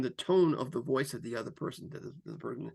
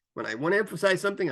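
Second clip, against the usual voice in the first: sped up; 4 semitones higher, 4 dB louder, faster than usual. Shown as a demonstration. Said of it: "I might speed it up".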